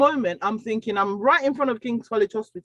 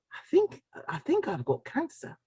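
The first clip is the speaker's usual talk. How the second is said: frightened confession; 6 semitones higher, 6 dB quieter than usual. Retold or imitated. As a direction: voice jumps up high on the first "think", then drops very soft. Frightened confession to the young girl.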